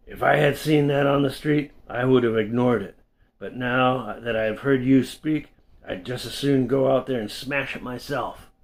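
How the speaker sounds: stern rebuke. Retold or imitated. Bartender rebukes Dan.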